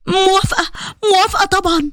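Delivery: shy happy yes. Acted. Shahd accepting Qasim's proposal, shy and happy. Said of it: "بفرحة وكسوف".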